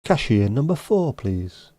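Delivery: mock announcer call, rising then dropping on please; bank desk announcer. To an imaginary queue, a mock bank desk announcer call. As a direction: call the next customer like a tannoy. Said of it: "a bank desk announcer".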